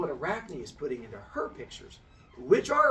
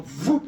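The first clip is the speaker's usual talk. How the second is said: quick, loud "voop" sound effect; imitated whoosh; 8 dB louder than usual. Storyteller mimics shirts being ripped off, imitated whoosh.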